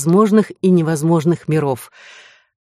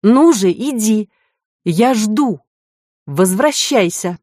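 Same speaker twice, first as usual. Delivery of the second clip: insistent, raised demanding call; 5 semitones higher, slower than usual. A narrator's reading. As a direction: urge her back firmly. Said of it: "повторил требовательно".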